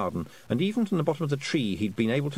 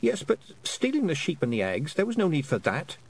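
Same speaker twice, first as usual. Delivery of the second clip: firm scolding; Tiffany scolding Rob Anybody, stern; 6 semitones higher than usual. Acted. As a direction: tell him off like a strict girl. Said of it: "she said sternly".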